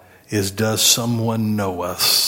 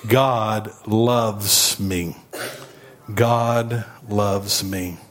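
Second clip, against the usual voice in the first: slow, sincere affirmation; much slower than usual. Shown as a demonstration. Preacher leading a slow, sincere God loves me. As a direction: let them mean it. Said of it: "Say it with me".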